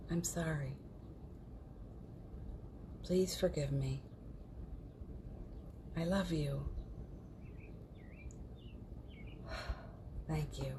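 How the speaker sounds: quiet, unhurried recitation; guided mantra. Real, not acted. Leads a Ho'oponopono recitation.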